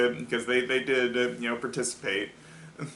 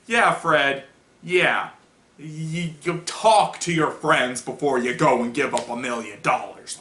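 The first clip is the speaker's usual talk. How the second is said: mock-indignant scolding; lightly acted anger, louder on the opening jabs; mad; 3 dB louder than usual. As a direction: pile on with peeved emphasis. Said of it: "They're just mad at him".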